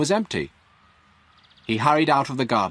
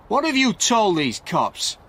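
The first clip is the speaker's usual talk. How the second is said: high, louder angry demand; angry shout; 11 semitones higher, 3 dB louder than usual. A narrator's reading. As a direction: snap it at Frank, furious. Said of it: "Stewart shouted angrily at Frank".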